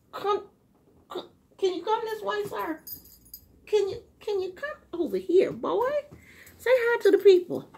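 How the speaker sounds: high, sing-song pet voice, coaxing; talking to the dog. Real, not acted. Woman coaxing her dog Gizmo to come over, high pet talk.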